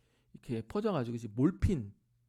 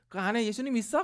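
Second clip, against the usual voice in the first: higher, put-on voice of a cheeky mother; mock mother voice; 10 semitones higher, 7 dB louder than usual. Mother greeting the preacher as a fellow boss, high and playful. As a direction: act out the mother's playful introduction.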